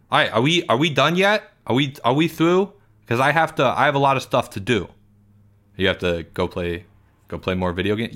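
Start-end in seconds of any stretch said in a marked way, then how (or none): 0.1-4.9 Porge. Acted. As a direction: play Porge, indignant and put-upon.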